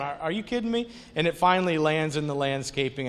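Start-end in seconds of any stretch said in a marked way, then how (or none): 0.0-0.9 higher, stammered disbelief; mock-exasperated at the wind; incredulous. Exasperated at the blowing receipt.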